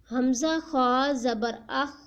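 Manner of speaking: put-on slow, deliberate spelling-out for children; slow syllable drill. Shown as a demonstration. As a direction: spell each sound out slowly for a young learner. Teacher drills Qaida syllables slowly.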